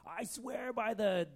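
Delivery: slow, grandiose mock vow; solemn oath. Shown as a demonstration. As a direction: proclaim it like a pompous oath to a god. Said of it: "this promise before a false god".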